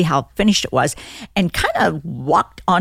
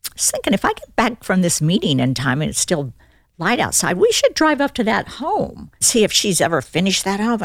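offhand suggestion, opened on a high pitch; mock-nonchalant husband; acting casual; 4 semitones higher than usual. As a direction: imitate someone floating an idea casually. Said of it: "he's just acting so casual".

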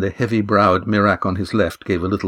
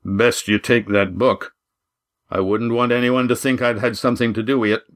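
Walt. A narrator's reading. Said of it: "rumbled Walt's voice from behind Adramin".

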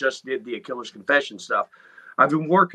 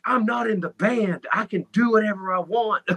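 playful defiance; 7 semitones higher than usual. Retold or imitated. Retelling his cheeky retort to fans.

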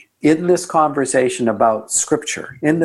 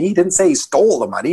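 emphasis on "stole" with rising tune; stress on STOLE; 6 semitones higher, faster than usual. Shown as a demonstration. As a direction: punch the word "stole". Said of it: "seven words, seven interpretations".

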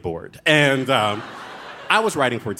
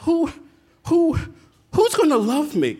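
Monique's wailing plea; 14 semitones higher than usual. Retold or imitated. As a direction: wail it like a tragic film heroine begging for love. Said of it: "I was quoting the movie Pre-, Monique from the movie Precious".

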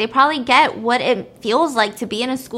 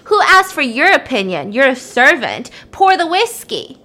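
angry brat; 5 dB louder than usual. Retold or imitated. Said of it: "the kid gets pissed".

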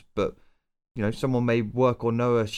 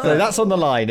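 laughing; 5 semitones higher, 6 dB louder than usual. Real, not acted. Joking about cats being murdered.

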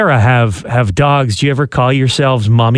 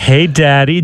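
mock wife voice. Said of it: "with your weird voice".

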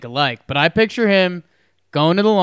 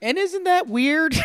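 laughing; 13 semitones higher than usual. Real, not acted. Laughing at failed impression.

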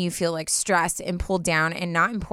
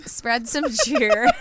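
cheery; 6 semitones higher, 3 dB louder, much slower than usual. Shown as a demonstration. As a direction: spread some cheer, slow and beaming. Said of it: "trying to make it".

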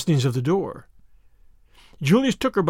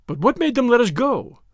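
mildly suspicious, higher-pitched demand; 6 semitones higher than usual. A narrator's reading. Tuppence questions why they were released, mildly suspicious. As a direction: put a touch of suspicion in the question. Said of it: "demanded Tuppence suspiciously".

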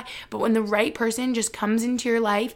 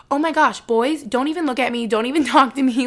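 higher, louder brush-off; sassy dismissal; 3 semitones higher, 4 dB louder than usual. Retold or imitated. Vlogger imitating her confident single self, sassy and loud. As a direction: wave the boys off with playful sass. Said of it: "And I was like".

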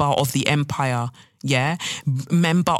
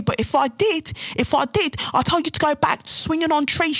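mock outraged British racist, pitched way up; angry racist caricature; 8 semitones higher than usual. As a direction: sneer it out as a frothing bigot. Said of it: "you're like".

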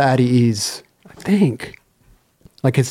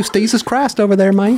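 put-on Southern accent; 4 semitones higher than usual. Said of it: "I can do a great Southern accent".

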